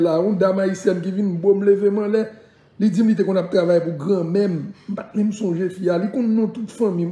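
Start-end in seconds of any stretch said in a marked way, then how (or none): none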